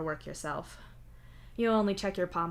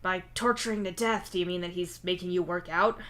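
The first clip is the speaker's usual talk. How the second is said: bland; 3 dB louder than usual. Acted. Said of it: "as blandly as possible".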